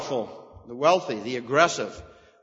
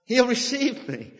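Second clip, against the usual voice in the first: high, triumphant declaration; dramatic proclamation; 10 semitones higher than usual. Acted. Preacher dramatizing the psalm's climax, ringing out high. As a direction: announce it like a drum roll. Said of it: "a drum roll or something like that".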